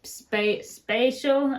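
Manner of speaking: "spatial" attempted haltingly as granddad's word; granddad's pronunciation. Trying to copy granddad's word "spatial", imitated pronunciation. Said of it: "he said s".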